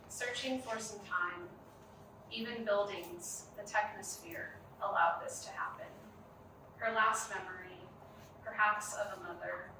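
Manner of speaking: measured poem reading with long pauses; poetry reading. Acted. Poet reading their own work to a gallery audience, measured poetry reading.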